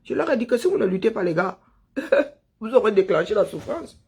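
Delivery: usual speaking voice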